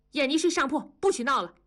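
exasperated mother. A narrator's reading. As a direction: lay down the law to the children. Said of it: "文丽急了". (着急地训孩子)

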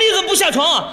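demanding question. Acted. Husband challenges his wife still in bed, demanding question. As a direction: demand an answer. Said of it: "我说".

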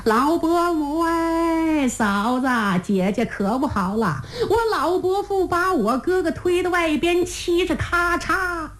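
calling out. Acted. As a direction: call it long and high across the tent. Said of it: "所以江须到的后帐才喊".

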